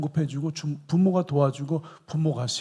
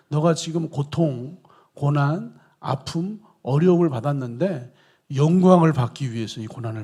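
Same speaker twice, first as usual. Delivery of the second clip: louder, driving sermon voice; preacher voicing God to the congregation, louder; preaching at full force; 5 dB louder than usual. Preaching God's words.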